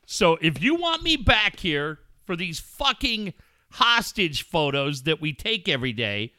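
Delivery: an irritated, profane chewing-out of a late friend; mock angry rant. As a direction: scold him like he owes you, half joking. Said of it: "It would have been this".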